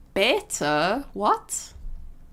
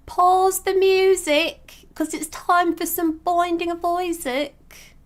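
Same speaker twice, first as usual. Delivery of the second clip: high, slow hammed-up announcer call; silly high announcer intro; 9 semitones higher, 5 dB louder, slower than usual. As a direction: boom it out like a game-show host. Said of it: "Sorry, I don't know why I said it like that".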